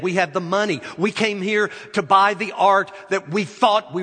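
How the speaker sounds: angry crowd yelling. Acted. The crowd yells at the auctioneer, furious and loud. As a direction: shout it like a cheated crowd denied their prize. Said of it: "People begin to yell".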